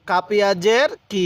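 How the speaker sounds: কি held for a long beat; slow spelling, drawing out the vowel of কি; one-alif stretch. Shown as a demonstration. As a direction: lengthen কি evenly. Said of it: "এক আলিফ টান দিব".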